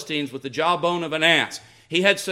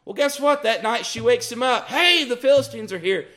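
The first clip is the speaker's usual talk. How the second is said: sarcastic; 6 semitones higher than usual. Real, not acted. Preacher mocks Samson again.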